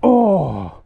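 joyful loud whoop; excited. Real, not acted. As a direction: cheer out loud with delight. Fish swims back to nest.

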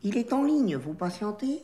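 put-on restrained refined Paris accent; corrected chic accent. Trainee redoing the hold line, careful chic accent. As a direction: rein the Parigot in, aim for chic. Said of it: "L'accent, l'accent".

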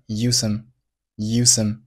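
"use some" with the z and s merged into one sound; merged consonants. Shown as a demonstration. Teacher shows learners "use some" linked, z and s merged. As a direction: run "use some" together on a single hiss, slowly. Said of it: "咱们只保留一个就好了".

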